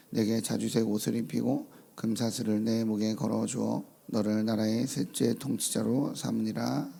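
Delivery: measured, formal Bible reading; scripture reading. Acted. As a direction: read the passage with solemn weight. Reads scripture aloud.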